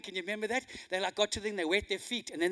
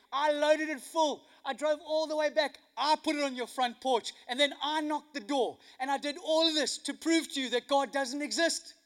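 higher, emphatic protest, rattling off the no's; indignant neighbor; 4 semitones higher, 4 dB louder than usual. Retold or imitated. Atheist neighbor correcting the widow about the groceries, indignant protest. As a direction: act out an insistent, put-out objection. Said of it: "the neighbor came round the corner".

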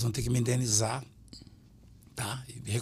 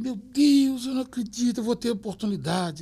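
excited outburst; 9 semitones higher than usual. Retold or imitated. Woman running up to the pastor at the airport, imitated high and excited. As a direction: burst out like you can't believe it. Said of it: "veio uma senhora chorando".

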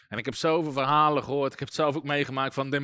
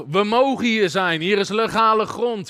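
slow, higher, louder mock claim; retold demon call; 4 semitones higher, 5 dB louder than usual. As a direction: imitate spirits calling out their rights. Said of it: "roepen sommige geesten".

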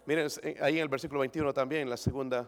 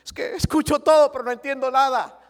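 panicked patient; 10 semitones higher, 12 dB louder than usual. Retold or imitated. Man in the joke complaining to his doctor, high wailing voice. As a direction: whine it to the doctor, higher.

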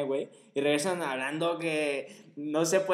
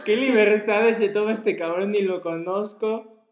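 offended woman; 5 semitones higher, 7 dB louder, slower than usual. Retold or imitated. Voicing the offended cashier girl.

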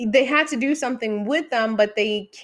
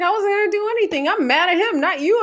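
mock angry man; 9 semitones higher, 4 dB louder, faster than usual. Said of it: "And he's like".

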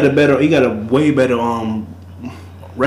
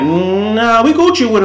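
higher, breezy mock dismissal of Rivers; mock Giants brush-off; 9 semitones higher, 4 dB louder, much slower than usual. Retelling how the Giants would have waved him off, higher and breezy. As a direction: toss it off like the team doesn't care. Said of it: "the Giants would have just been like".

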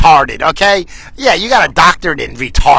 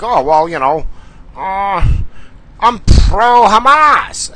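mock student; 4 semitones higher, slower than usual. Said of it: "they're like".

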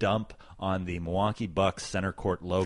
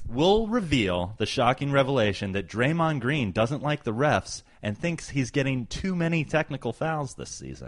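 higher-pitched mock reveal, fading at the end; mock dramatic teaser; 5 semitones higher than usual. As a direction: tease a fake shocking revelation. Mock teaser for next episode.

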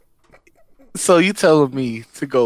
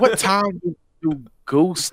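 sounds like a honking goose, higher; goose-like honk on the words; 5 semitones higher than usual. Real, not acted. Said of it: "why you legit sound like a goose".

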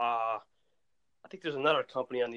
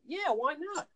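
higher, brushing off the question; breezy defiance; 10 semitones higher, 6 dB louder than usual. Retold or imitated. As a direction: shrug it off happily, louder. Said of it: "I'm like".

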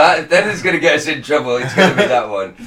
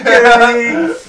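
loud, high call down a corridor; 8 semitones higher, 6 dB louder, slower than usual. Pretend. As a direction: shout the name across the cellblock. Guard calling the inmate.

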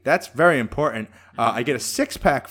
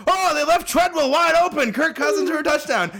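mock announcer; 13 semitones higher than usual.

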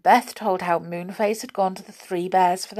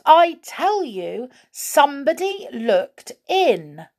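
insistent fright; 7 semitones higher, 4 dB louder than usual. Acted. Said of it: "said Goldilocks".

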